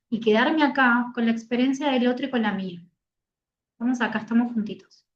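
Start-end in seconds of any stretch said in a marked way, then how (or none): 3.7-5.0 tender. Shown as a demonstration. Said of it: "validar es eso".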